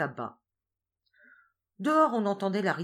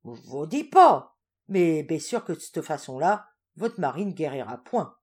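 sly farmer; 8 dB louder than usual. Acted. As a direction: needle her with a warning. Farin teasing warning.

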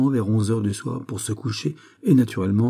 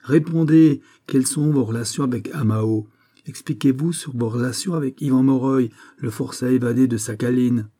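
demanding judge; 4 semitones higher than usual. Acted. The judge demands answers from the prisoner, forceful. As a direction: hammer him for an answer.

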